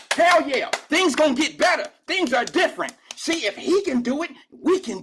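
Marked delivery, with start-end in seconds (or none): 0.1-2.9 mocking the crowd that cheers the mayor; mock cheering. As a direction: ham up the clapping crowd's hype.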